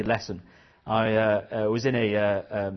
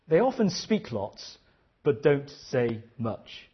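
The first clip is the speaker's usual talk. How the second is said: repeated even slower; slower than usual. Retold or imitated. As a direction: stretch out "don't say much". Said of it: "She said".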